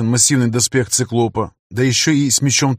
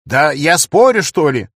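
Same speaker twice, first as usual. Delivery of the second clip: с улыбкой; 3 semitones higher, 4 dB louder, slower than usual. A narrator's reading. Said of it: "улыбаясь до ушей".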